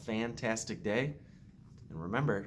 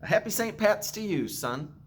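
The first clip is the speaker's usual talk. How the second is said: higher, louder happy call across the field; shouted greeting; 10 semitones higher, 4 dB louder than usual. Acted. Jamie greets the sunrise on the empty stage, joyful shout. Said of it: "Jamie shouted".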